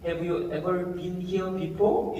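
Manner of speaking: slow demonstration of American-accented English; American-style English. Shown as a demonstration. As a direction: show off an American English lilt, unhurried. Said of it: "미국식 영어입니다".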